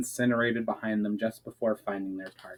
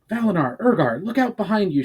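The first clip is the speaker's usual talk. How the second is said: high, louder call to her friends; shouted warning; 9 semitones higher, 5 dB louder than usual. A narrator's reading. Myra warning her companions of soldiers behind, shouted. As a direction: warn them of the soldiers behind, loudly. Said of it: "shouted Myra".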